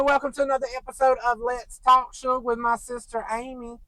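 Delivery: bright upbeat host intro; show intro. Real, not acted. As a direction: welcome viewers with energy.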